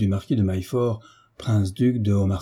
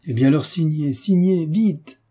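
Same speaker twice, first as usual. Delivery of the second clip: higher, mounting eager insistence; urgent urging; 6 semitones higher than usual. A narrator's reading. Marquis urging Herminie to sign at once, eager insistence. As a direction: press for it, rising with each word.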